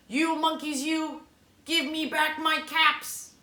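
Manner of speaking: peddler demo. Acted. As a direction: act the peddler for the kids. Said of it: "So I'm the peddler".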